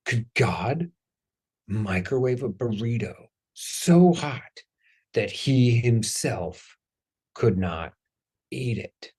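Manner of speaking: lightly voiced slow, spaced-out Homer; mock high Homer asking Flanders, slow and drawn; stoned Homer. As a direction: drag it out like a dazed stoner. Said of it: "he acts like he's high".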